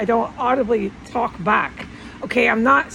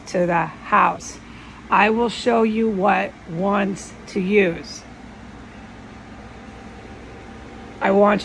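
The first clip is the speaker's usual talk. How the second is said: a lightly voiced calm, stern man giving orders; calm stern male voice; 2 semitones lower than usual. Copying the guiding voice to viewers, calm and stern. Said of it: "This is how, try to copy it".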